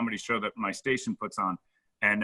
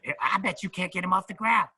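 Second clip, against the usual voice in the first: high conspiratorial put-on voice; imitating Ralphie; 9 semitones higher than usual. Ralphie offering a grand backstage, high sly voice. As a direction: pitch up and tempt him with the cash. Retold dare.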